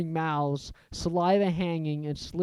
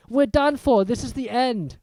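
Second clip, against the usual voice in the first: moaning; 7 semitones higher, 5 dB louder than usual. A narrator's reading. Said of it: "Ron moaned".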